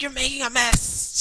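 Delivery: high, whiny mock complaint; imitating the girlfriend. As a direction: whine it like the annoyed girlfriend. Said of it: "it's like".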